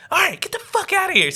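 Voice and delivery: very high-pitched imitation of mom; dismissive mom. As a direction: send them off in a high mom voice. Mom dismisses them, acted.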